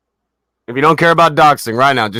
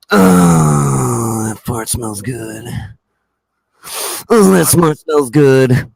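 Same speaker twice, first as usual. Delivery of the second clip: mock smug; 3 semitones lower, much slower than usual. Mocking smug self-satisfaction.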